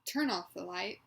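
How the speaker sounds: strong voice, each word deliberate and intonated; deliberate, with intent. Shown as a demonstration. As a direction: model phrases clearly for someone to repeat. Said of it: "make sure you're saying each word, um, deliberately".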